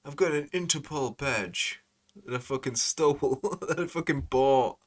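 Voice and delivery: high, loud mock boast; Military Mike. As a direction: crow it out high and loud in a mocking impression. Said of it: "a newer video with Military Mike, and he's got".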